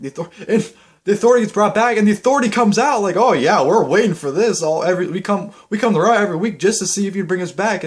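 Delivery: high, loud mocking voice of the Authority. Vlogger mocks the Authority welcoming themselves back, high and loud. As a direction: sneer it out as the smug Authority.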